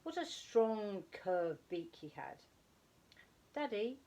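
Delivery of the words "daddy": put-on high, loud child's call to wake his dad; a little owl calls out to wake his sleeping father; calling loudly. A narrator's reading. Young owlet loudly calling his father. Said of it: "he said loudly".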